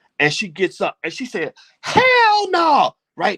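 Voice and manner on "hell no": very high, loud, shrill, blurted yell. Retelling how the girl answered in a crowded cafeteria: imitating a loud shout. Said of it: "Real loud".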